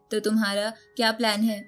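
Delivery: ordinary delivery, nothing marked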